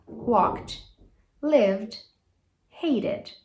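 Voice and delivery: walked with t, lived with d, hated with id; correct past forms. Shown as a demonstration. Teacher summing up the three rules. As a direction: list the three endings cleanly. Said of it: "nunca mais você vai falar".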